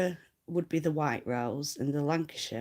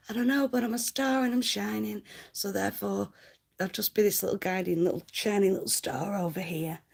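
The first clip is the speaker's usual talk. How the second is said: starry-eyed little star; 4 semitones higher than usual. Pretend. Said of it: "I'd be like".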